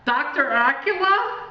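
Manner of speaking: high, loud, fearful asking; frightened question. A narrator's reading. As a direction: ask it shuddering in fear. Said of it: "shuddering in fear".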